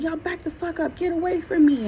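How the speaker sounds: high-pitched mock protest, not shouted; retold warding-off. Boyfriend pushing surrounding neighbors away, high mock-angry protest.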